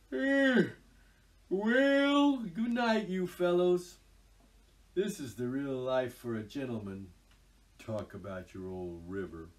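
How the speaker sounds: swagger like a self-satisfied toad; boastful Toad. Acted. Narrator voices Toad.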